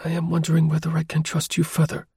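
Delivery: anxious plea to keep driving; apprehensive urging. A narrator's reading. Woman urging the driver not to stop, apprehensive.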